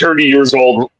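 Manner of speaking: Newfie accent, THIRTY as "turty". Shown as a demonstration. Showing friends how Newfies give an age, Newfie accent. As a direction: say it like a Newfie, TH turned to T. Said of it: "if you've never heard a Newfie accent".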